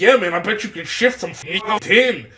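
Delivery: hostile, combative, aggressive delivery. Retelling what a man said to another guy, imitating an aggressive tone. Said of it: "saying this in an aggressive way".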